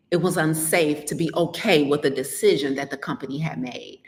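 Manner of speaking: drops into a whisper; a secretive whisper for emphasis; hushed whisper. Real, not acted. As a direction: confide it under the breath, unvoiced. Stressing the risk of being happy.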